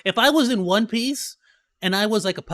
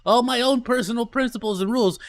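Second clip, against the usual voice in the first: excited; 5 semitones higher, 3 dB louder than usual. Real, not acted. Excited about boysenberry beer.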